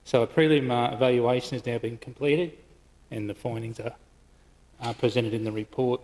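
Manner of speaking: out of breath after a run; breathless from running upstairs. Real, not acted. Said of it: "Sorry, I'm just catching my breath".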